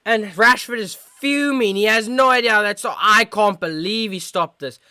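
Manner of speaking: high, worked-up football reaction; amazed commentary. Real, not acted. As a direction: keep the excitement up, marvelling at the stop. Reacting to the big save.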